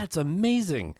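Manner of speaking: high-pitched audience gushing; imitated amazement. Retold amazed reaction of audience.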